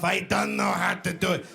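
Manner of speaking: imitated old foreign lady, heavy and halting; plaintive mock old-lady voice; hammed-up helpless granny. Old lady hands over her papers.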